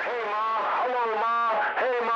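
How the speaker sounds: a goofy on-camera hello to Ma; high, hammed-up greeting to Mom; mock shout-out. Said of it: "I always wanted to say that on video".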